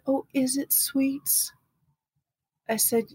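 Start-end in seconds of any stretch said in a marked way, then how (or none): 0.1-1.5 higher, softer, mock-sweet; sugar-coat it with suspicion; sugary fiancé. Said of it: "he said".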